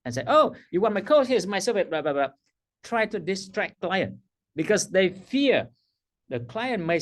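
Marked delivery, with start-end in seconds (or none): 0.3-2.3 nervous rushed coach. Retold or imitated. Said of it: "this is the moment coach scare most".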